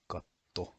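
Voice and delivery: katto with a held t; katto, pitkä t; long Finnish t. Shown as a demonstration. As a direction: pause on the tt in katto. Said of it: "with a long T sound".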